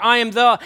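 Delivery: loud, insistent stress on "the"; emphatic "the". Shown as a demonstration. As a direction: punch the word "the". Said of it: "you're making an emphatic statement".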